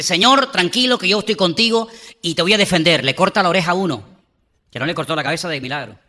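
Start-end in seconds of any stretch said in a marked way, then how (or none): 0.0-3.0 loud, high, boastful promise; bold Peter. Retold or imitated. Peter brags to Jesus, loud and cocky. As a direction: swagger with sword drawn. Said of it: "Allí se saca la espada y dice".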